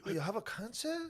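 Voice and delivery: high, soft mock Asian accent. Comedian at a hospital bedside, mock Asian accent. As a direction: ask it high and quiet, hammed-up Asian accent.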